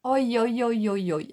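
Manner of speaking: excited oi oi. Real, not acted. Thrilled by the orange glitter.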